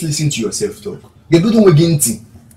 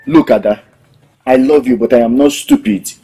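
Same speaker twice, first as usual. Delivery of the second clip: angry; 2 semitones lower, 8 dB louder than usual. Acted. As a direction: throw it at him, done with his lies. Woman ends affair, angry quarrel.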